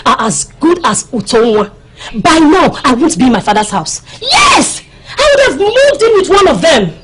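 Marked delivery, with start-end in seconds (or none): 2.2-6.9 excited boast. Acted. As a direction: brag it out with glee. Boasting about suitors, shouting.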